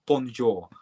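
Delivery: bonjour in a plain English accent; English-accented French. Shown as a demonstration. Streamer showing the wrong exam accent, English accent. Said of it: "you saying French and English".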